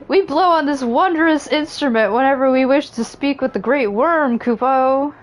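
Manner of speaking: a hint of a squeaky Moogle. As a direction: play a chirpy Moogle elder. Reads Moogle chieftain dialogue.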